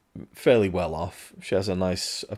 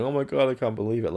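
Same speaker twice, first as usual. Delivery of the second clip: mock hysterical outburst; 5 semitones higher, faster than usual. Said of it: "screaming or crying or going".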